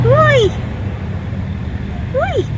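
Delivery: high sudden yelp; startled oh. Real, not acted. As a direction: jump at a surprise. Hedgehog reaction.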